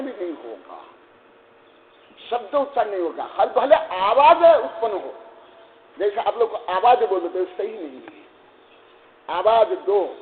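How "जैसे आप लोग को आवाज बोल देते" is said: normal talking voice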